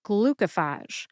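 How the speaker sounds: "Glucophage" slowly, in three clear syllables; syllable-by-syllable model. Shown as a demonstration. Pharmacist introducing three syllables, slow, clear "Glucophage". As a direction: say "Glucophage" slowly as GLU-co-fahzh. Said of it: "glucophage has three syllables as well".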